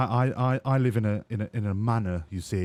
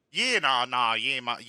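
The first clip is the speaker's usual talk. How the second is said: put-on Australian accent. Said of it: "speaking in your accent anymore".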